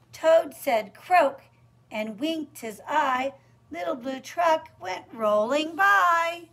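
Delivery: lively storytime narration, punching the animal sound; lilting read-aloud; picture-book reading. Acted. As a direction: read the rhyme out brightly to small children.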